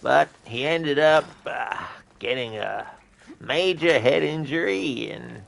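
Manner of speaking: a hint of a rambling old man. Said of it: "Thanks for redeeming the old man impression".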